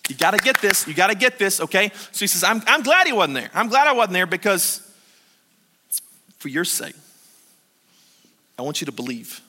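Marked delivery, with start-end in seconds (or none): 2.4-9.4 tender. Retold or imitated. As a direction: ease down to a gentle plea. Jesus voiced, fading.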